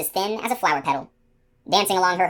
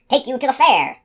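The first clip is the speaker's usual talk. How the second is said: louder, much higher wheedling; eager coaxing; 8 semitones higher, 6 dB louder than usual. Acted. Gardener luring the unicorn, loud high coaxing. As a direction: promise her a treat.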